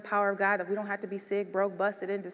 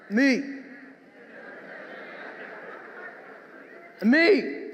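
fierce shout; 3 semitones higher than usual. Acted. Mother as lion guarding son.

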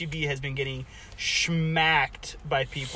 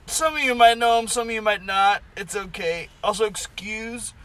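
chewing while talking; 6 semitones higher, 7 dB louder than usual. Real, not acted. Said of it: "excuse the, uh, munching today".

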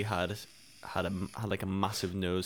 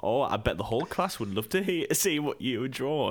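mock-coaxing teacher; 4 semitones higher, 4 dB louder than usual. Teacher goading pupils over their drawing, mock-coaxing. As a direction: imitate a teacher goading a pupil with fake enthusiasm. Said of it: "he played the whole thing of".

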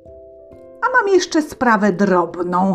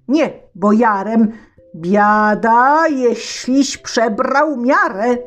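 tsar yelling, higher and louder; angry shout; 6 semitones higher, 4 dB louder than usual. Acted. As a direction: bellow like an enraged tsar. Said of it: "z wielkim gniewem krzyknął". (car krzyczy z wielkim gniewem)

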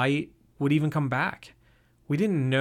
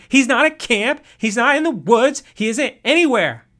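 high panicked yell; 10 semitones higher, 9 dB louder than usual. Acted. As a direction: keep screaming, higher and louder. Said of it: "she screamed".

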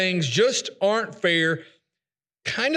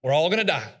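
despairing cynic; 5 semitones higher than usual. Retold or imitated. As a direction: play the doom-saying pessimist, rising higher. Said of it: "The cynic is the individual who's like".

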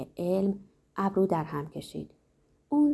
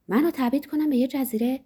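higher, louder cry of disbelief, rising on منو; shouted in alarm; 5 semitones higher, 3 dB louder than usual. Acted. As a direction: fling the question out in panic. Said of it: "فریاد کشید".

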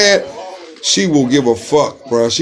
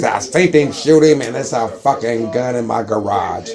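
quiet mock snitch; 6 semitones lower, 5 dB quieter than usual. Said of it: "tell the police".

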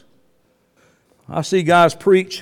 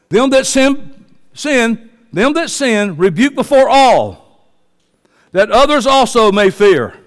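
mock stern scripture reading; 2 semitones higher, slower than usual. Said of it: "This is what I should do".

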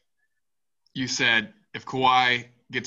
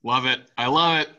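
hyped host; 3 semitones higher, 5 dB louder than usual. Real, not acted. Host hyping up his co-host's rant, loud and excited. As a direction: cheer the hot take like a radio host. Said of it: "That's why everyone tunes in".

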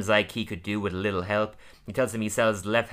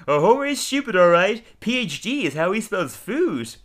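high, louder old-lady put-on voice; Grandma mocking Homer; 9 semitones higher, 4 dB louder than usual. Grandma mocks Homer at the table, high shrill-free put-on voice. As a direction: squawk the insult like a cackling granny. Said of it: "And Grandma's like".

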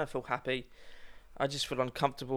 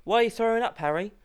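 questioning wife; 8 semitones higher, 4 dB louder than usual. Acted. Playing wife questioning husband.

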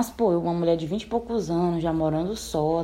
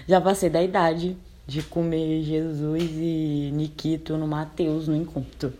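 slow deliberate repeat; 3 semitones lower, slower than usual. Retold or imitated. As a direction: stretch each word out slowly. Repete recusa devagar. (devagar e bem pausado)

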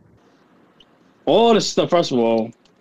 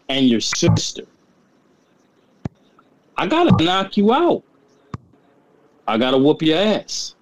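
wrestling promo; 2 semitones higher than usual. Pretend. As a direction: cut a fired-up wrestling promo. Acts out Rey's promo to Dominic.

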